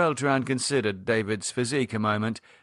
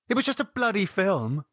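exasperated, higher-pitched protest; snapped; 10 semitones higher than usual. A narrator's reading. Lydia dismissing David's jokes about a film, snapping. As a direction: put him down with irritation. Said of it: "Lydia snapped".

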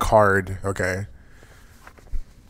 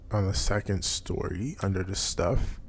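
soft, slow ASMR murmur; 3 semitones lower, 12 dB quieter, slower than usual. Acted. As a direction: hush it like an ASMR stream. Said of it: "You want me to do the A S M R voice thing".

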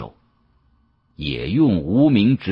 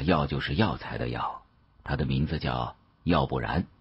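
put-on elderly professor; 5 semitones lower, 5 dB quieter than usual. Old professor soothing the shopkeeper.

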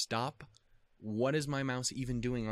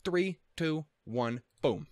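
high, louder hype count to boom; excited countdown; 7 semitones higher, 5 dB louder, much slower than usual. Acted. Starting the episode with a high, louder hype countdown. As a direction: count it down like a launch.

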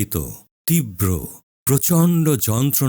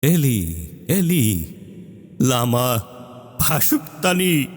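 high-pitched cry rising towards the last word; 5 semitones higher than usual. Acted. Jesus calls out to God in the ninth hour, crying out. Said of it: "জোরে চিৎকার করে বললেন".

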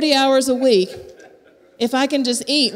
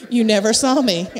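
Jedi mind trick; 2 semitones lower than usual. Pretend. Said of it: "I'll do the Jedi trick".

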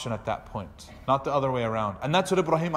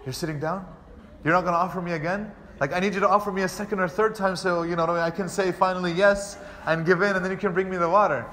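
surprised guest; 3 semitones higher than usual. Retold or imitated. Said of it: "the guy is like".

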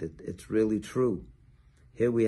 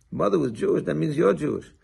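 higher, mildly amazed retort; a retold jolt of surprise, then certainty; surprised; 6 semitones higher, 3 dB louder than usual. Rabbi to the Christian man, mock surprised then certain. Rabbi reacts to mother's Jewishness.

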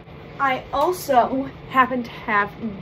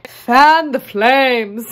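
shout; 2 semitones higher, 10 dB louder, much slower than usual. Acted. Dramatic makeup exclamation.

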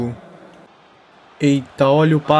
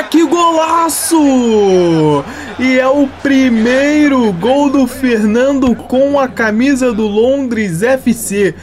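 shouting the goal, drawn out high; explosive goal commentary; 4 semitones higher, slower than usual. Real, not acted. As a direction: yell it like a TV goal call. Goal scored in FIFA career mode.

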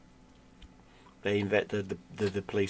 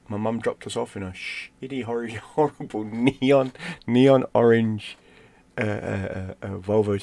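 laughing through the description, louder on the last words; 2 semitones higher, 6 dB louder, slower than usual. Real, not acted. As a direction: let real laughter break into the words and stretch them out. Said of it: "I'm laughing now".

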